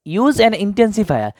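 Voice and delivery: very slow, stressed reading; slow emphatic reading. Shown as a demonstration. Teacher stressing the simple instruction slowly for students. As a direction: lay the key phrase out slowly. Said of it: "এখানে সহজ কথা".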